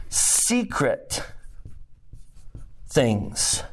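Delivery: hushed "Secret"; emphasis on secret. Shown as a demonstration. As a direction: whisper the word "Secret" for weight. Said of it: "notice the emphasis here".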